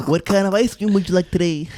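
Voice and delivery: cheery counter-worker greeting; customer service voice. Retold or imitated. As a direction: greet the customer brightly, laughing. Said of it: "Everyone has a customer service voice".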